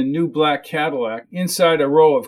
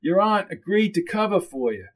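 character dialogue, pitched higher; raised-pitch speaking part in a story; lightly voiced story character; 5 semitones higher than usual. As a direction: fill someone in, voice lifted.

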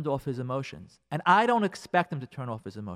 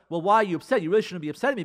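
mock defensive husband; 2 semitones higher, 6 dB louder, much faster than usual. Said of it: "Don't tell her".

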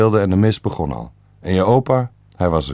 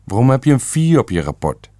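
a touch raised and higher, scolding father; retelling a father scolding his son, mildly shouted; mild mock shout; 5 semitones higher than usual. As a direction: snap it at the son like the angry father. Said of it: "schreeuwde mijn vader dan".

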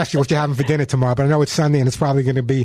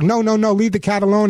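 mild mock scolding; 4 semitones higher than usual. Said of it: "start yelling at the dog".

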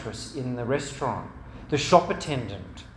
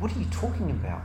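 quick, higher-pitched disbelief; baffled protest; 4 semitones higher, much faster than usual. Retold or imitated. Dad questioning his daughter's accusation, baffled. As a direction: rattle out a puzzled denial.

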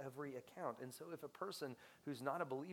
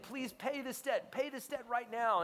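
higher, loud mock demand; 8 semitones higher, 6 dB louder than usual. Forgiven man demanding his servant pay up, loud harsh demand. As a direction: press the poor servant for the debt. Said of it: "And he demanded".

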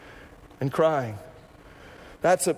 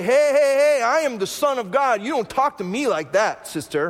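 mock stern rebuke; 4 semitones higher, 3 dB louder than usual. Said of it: "He doesn't look at Martha and say".

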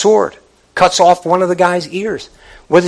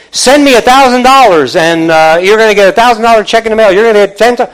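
louder hammed-up money preacher, quick; mock prosperity preacher; 3 semitones higher, 5 dB louder, faster than usual. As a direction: play the greedy TV preacher pitch. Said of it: "get in the pulpit and say".

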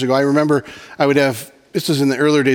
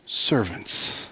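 whispered; 5 semitones lower, 8 dB quieter than usual. Acted. Whispered climax.

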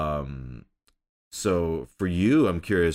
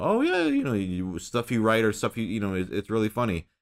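mock praise voice; 4 semitones higher than usual. Imitating people praising his comedy.

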